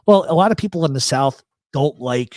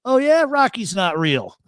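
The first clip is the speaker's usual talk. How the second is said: laughing mock; 10 semitones higher, 5 dB louder than usual. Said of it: "couldn't help himself to tell people".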